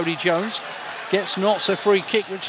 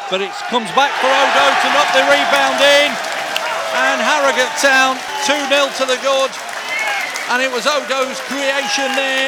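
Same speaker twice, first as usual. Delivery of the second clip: rising, louder goal call; excited goal call; 4 semitones higher, 4 dB louder than usual. Real, not acted. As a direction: lift it for the goal. Goal scored, commentator rises.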